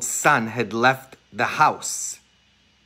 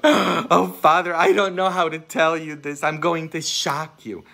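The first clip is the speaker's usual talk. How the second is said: mock nervous penitent; 5 semitones higher than usual. Priest mimicking a penitent in confession, high and anxious. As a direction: play a flustered penitent.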